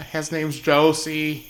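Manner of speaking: high, slow tiny pixie voice; a small voice calling from afar; little voice. Acted. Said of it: "you hear a little voice go".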